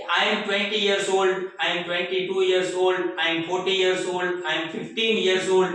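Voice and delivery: slow, clear teacher demo, word by word; slow model answers. Shown as a demonstration. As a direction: spell each answer out slowly for learners. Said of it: "તો આનો જવાબ હોઈ શકે". (ધીમે ધીમે સ્પષ્ટ ઉચ્ચાર)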